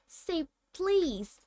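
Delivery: high, teasing sing-song; mocking poltergeist tune. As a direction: tease Filch with a lilt. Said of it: "annoying sing-song voice".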